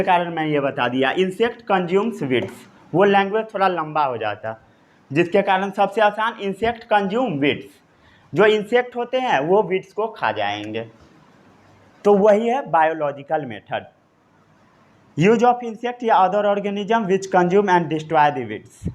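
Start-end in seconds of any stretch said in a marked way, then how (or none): 1.1-2.7 very slow, word by word for note-taking; slow dictation. Shown as a demonstration. Teacher dictating a note to the class, very slow. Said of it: "इतना note down कर लिए?". 15.2-18.9 slow, evenly paced definition; slow dictation. Shown as a demonstration. Teacher reading a definition to students, slow dictation. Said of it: "इतना note down कर लिए?".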